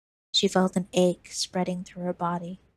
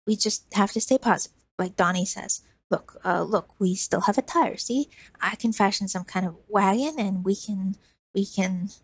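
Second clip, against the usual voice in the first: put-on hopeful boy. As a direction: keep her spirits up like a kid. Lizard hopeful.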